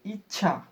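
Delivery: "इच्छा" with a light च running straight into छ; juncture between sounds. Shown as a demonstration. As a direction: go from ई through a light "च" directly to "छ" in "इच्छा". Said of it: "हल्का च बोलकर छ बोल देते". ("इच्छा" में हल्का च, फिर तुरंत छ)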